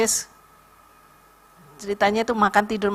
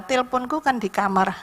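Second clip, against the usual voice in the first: ordinary talk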